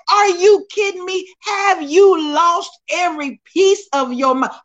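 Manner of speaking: are you serious, said with a laugh; disbelief. Retold or imitated. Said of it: "I'm like".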